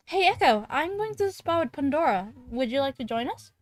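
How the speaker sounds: Ashley voice. Acted. Voicing Ashley inviting.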